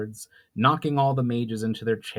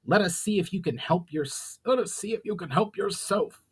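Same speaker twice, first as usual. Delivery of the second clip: angry goblin; 8 semitones higher than usual. Acted. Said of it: "said angrily".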